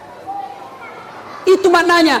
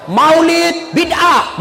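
mocking a harsh preacher. Preacher mocking hardliners who call everything heresy, ranting. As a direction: rant it like a smug preacher damning everyone. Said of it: "Langsung nak kasih kafir semua orang".

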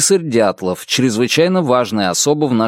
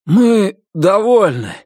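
high, slow grim call from the crowd; sullen shout; 8 semitones higher, 3 dB louder, slower than usual. A narrator's reading. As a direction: shout it, unsure. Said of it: "угрюмо крикнул вдруг один голос".

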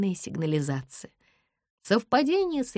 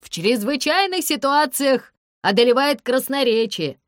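higher, loud, wry shout; yelling; 8 semitones higher, 6 dB louder than usual. A narrator's reading. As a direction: bellow it with a grin. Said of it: "орёт он".

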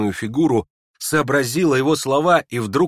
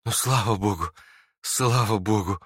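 joyful relief; 2 semitones lower than usual. Acted. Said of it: "с радостным и счастливым выражением".

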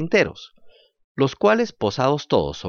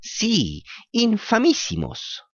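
drawn-out copycat echo; slow echoing cat; 10 semitones higher, much slower than usual. Acted. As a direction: repeat it slowly as the dim cat. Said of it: "repitió el gato".

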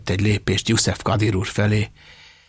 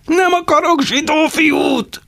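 higher, louder slow shout; howling; 5 dB louder, slower than usual. A narrator's reading. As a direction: shout it out in rage. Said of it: "üvöltötte". (lassú, dühös üvöltés)

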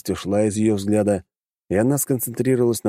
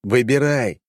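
barked; 5 semitones higher, slower than usual. Acted. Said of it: "рявкнул я".

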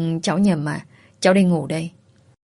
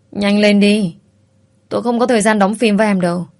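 louder, harsher impatient order; impatient demand; 3 semitones higher, 5 dB louder than usual. Acted. Man pressuring the frightened girl, impatient and loud. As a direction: push her hard, out of patience.

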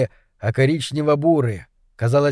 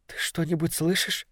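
hushed, listening voice; softly asking if he hears it; quiet question; 2 semitones higher, 9 dB quieter than usual. A narrator's reading. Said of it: "спросила она".

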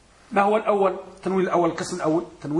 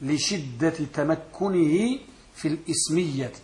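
slow model answer; 3 dB quieter, slower than usual. Shown as a demonstration. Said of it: "سمي بذلك لماذا".

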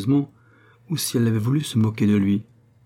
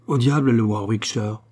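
sneering repeat. Acted. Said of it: "se mit à ricaner en répétant ces mots".

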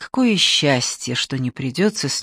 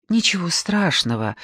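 slight sob; 2 semitones higher than usual. Acted. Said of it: "опять всхлипнула она".

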